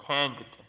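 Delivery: thanked said slowly, ending in K-T; thanked as one syllable, "thankt"; final T sound. Shown as a demonstration. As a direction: close thanked on a released T. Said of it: "se finalizaría con una T".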